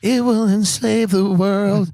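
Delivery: high, slow, eerie whispery-toned prophecy; spooky pop star. Acted. Pop star telling the talk show host about Satan, slow and eerie. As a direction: creep out the host with a dark slow voice.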